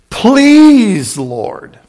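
beg, then drop away; begging. Acted. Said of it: "Now he's kinda start begging".

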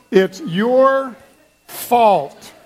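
hammed-up blame. Shown as a demonstration. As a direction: point the finger with mock glee. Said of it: "Doesn't that feel good?".

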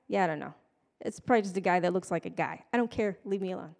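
mildly dismissive brush-off; can't be bothered. Acted. Busy bystander waving off a curious neighbor, can't be bothered. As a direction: shrug the question off, uninterested. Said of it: "I cannot be bothered to participate".

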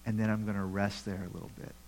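voicing Jesus and James. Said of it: "They're saying".

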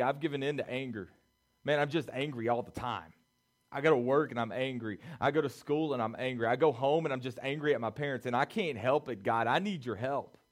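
put-on angry teen's prayer. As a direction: rush out the struggle to God. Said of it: "For us, it may be".

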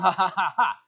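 mock laugh, ha by ha; imitated taunting laugh. Brother enjoys torturing his sibling, mock laughing. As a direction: act out an older brother's gloating laugh. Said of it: "And he laughs".

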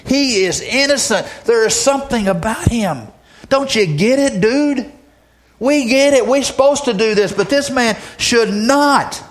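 high, pressing, insistent plea; pleading fervently, voice climbing high; dying thief rebuking the other, pitched high and urgent. Retold or imitated.

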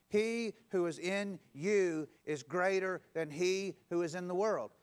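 slow, measured, each word laid out for the crowd to follow; slow call-and-response. Shown as a demonstration. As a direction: lead the room through it slowly. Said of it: "Will you say that with me?".

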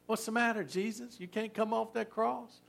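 preacher voicing the crowd mocking Jesus on the cross; mocking taunt. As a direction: tease him like a jeering bystander. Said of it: "so they mocked him and said".

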